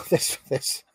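words lost in helpless laughter; breaking up laughing. Real, not acted. Streamer cracks up at what he is reading, laughing too hard to talk. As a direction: try to speak through real laughter.

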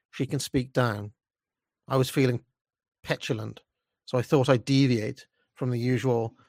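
measured, disdainful first-person narration; story narration. A narrator's reading. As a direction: read it as a self-important narrator's monologue. Reads own story aloud.

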